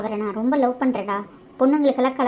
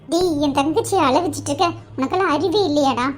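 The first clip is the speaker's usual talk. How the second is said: raised, indignant scolding of a cruel man; angry scolding; 2 semitones higher than usual. Acted. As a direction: tear into him for making her sister cry. Sister angrily scolds the man. (கோபமாக திட்டுதல்)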